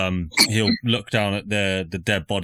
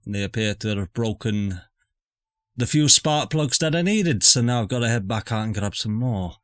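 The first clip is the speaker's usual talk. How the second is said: put-on Scottish accent. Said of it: "I picked up this accent".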